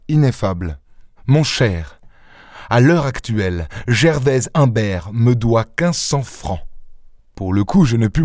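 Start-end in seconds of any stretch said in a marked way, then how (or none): 1.3-6.6 exasperated irony. Acted. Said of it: "d'un ton exaspéré où il était facile cependant de sentir des nuances d'ironie".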